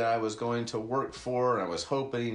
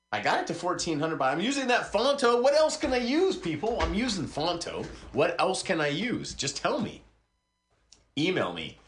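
high-pitched, exasperated appeal; exasperated plea; 8 semitones higher, 3 dB louder than usual. Acted. Host begging listeners for another option, exasperated. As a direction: plead at a much higher pitch, at wit's end.

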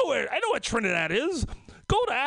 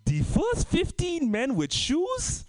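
slow, higher official call; mock announcement; 4 semitones higher than usual. Angolan team picking players, mock slow announcement. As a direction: call it out slowly like a notice.

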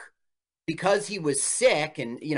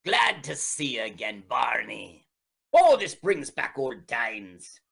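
put-on Irish accent; 4 semitones lower than usual. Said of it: "were you doing an Irish accent".

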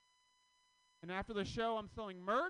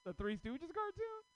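high, loud disbelieving yell; mock outrage, pitched high and loud; shocked yell; 8 semitones higher, 5 dB louder than usual. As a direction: shout it like you can't believe your eyes. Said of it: "I'm like".

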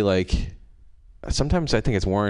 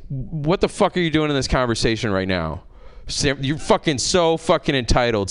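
mock-indignant, higher-pitched rant; retold yelling; 5 semitones higher than usual. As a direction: tell her off in a half-yell. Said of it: "I get to yell at this woman".

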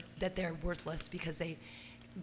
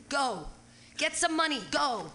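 raised, insistent retold orders; retold yelling; 6 semitones higher, 3 dB louder than usual. Host retells sending the man for money, yelling orders. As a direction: re-enact shooing someone out, louder and higher. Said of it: "All the screaming that was going on".

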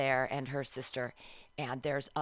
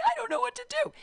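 louder, whimpering mock sob; mock crying; 5 dB louder, faster than usual. Stranded at the medical tent, she retells her crying plea. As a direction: retell the helpless crying, a bit hammed up. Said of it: "And so I start crying".

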